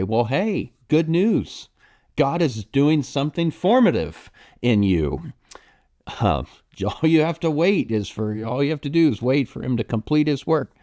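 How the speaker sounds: high, bright-sounding mock good news with a laugh; glib cheerful comfort. Pastor mocking glib advice to someone suffering, chirpy. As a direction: breeze in like a tone-deaf well-wisher. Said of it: "that's absolutely not what we should say".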